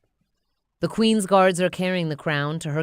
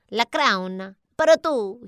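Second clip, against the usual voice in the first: higher minion offering; 6 semitones higher, 5 dB louder than usual. Acted. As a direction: hand it over sheepishly. Bob offers crown.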